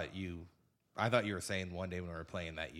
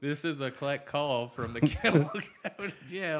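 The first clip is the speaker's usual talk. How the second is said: payphone call; 6 semitones higher, 6 dB louder than usual. Pretend. Mimics jail phone recording.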